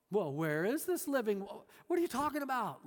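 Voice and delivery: sarcastic. Retold or imitated. The woman scoffs at Jesus's offer, sarcastic. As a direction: brush him off with scorn. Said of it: "she's very sarcastic here".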